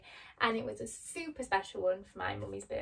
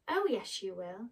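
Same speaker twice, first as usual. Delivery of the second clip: cheerfully. Acted. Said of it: "said Glinda cheerfully".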